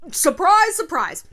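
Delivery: high, loud mock announcement; sarcastic surprise. Real, not acted. Host teasing listeners with a loud mock surprise. Sarcastic reveal about herself.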